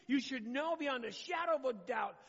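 preaching shout, pushing the point hard; emphatic shout. Real, not acted. Pastor exhorting the congregation to trust God's plan. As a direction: proclaim it with full force.

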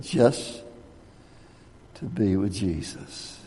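hushed low punchline; soft and low. Retold or imitated. Punchline, pastor's reply.

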